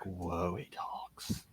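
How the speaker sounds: hushed, breathy stunned aside, ending whispered; a dazed, low-key whoa, trailing into a whisper; Keanu Reeves. Retold or imitated. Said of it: "Keanu Reeves like".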